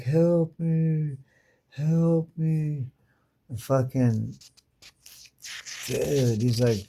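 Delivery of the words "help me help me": mock plea.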